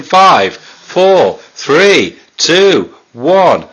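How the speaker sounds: calling out the countdown, loud. Real, not acted. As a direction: count it down loudly. Countdown to sour challenge.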